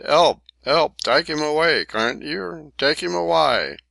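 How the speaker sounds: high, loud panicked pleading; desperate cry for help. A narrator's reading. Cockney being beaten, begging the onlookers in panic. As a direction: scream for someone to pull him off.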